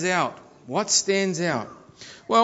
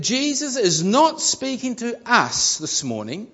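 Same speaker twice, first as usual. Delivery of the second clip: "not" leaned on with a rising tune; stress on not; 4 semitones higher than usual. Shown as a demonstration. Preacher to congregation, stressing "not". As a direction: push the word "not" to make the point. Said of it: "as I emphasize the point that".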